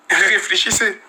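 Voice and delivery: slowed, with a laugh; relaxed chuckling repeat; amused repeat. Real, not acted. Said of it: "Vous voyez pas comment je suis décontracté".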